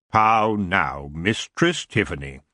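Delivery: a hint of a lazy, regal king; the elf king greeting Tiffany with cool amusement.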